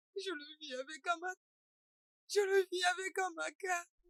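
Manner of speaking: tearful and distressed. In a drama, a character asked why they are crying answers, crying and upset. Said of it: "Pourquoi tu pleures?".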